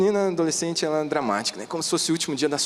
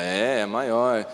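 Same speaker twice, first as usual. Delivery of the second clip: slow emphatic agreement; 5 semitones lower, much slower than usual. Retold or imitated. Father answering son, slow.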